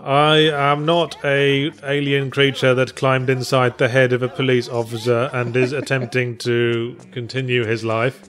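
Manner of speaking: lightly voiced, deliberate alien delivery; measured, stilted denial from an alien impostor; mock alien officer. Joking as the game's police officer, stilted alien voice.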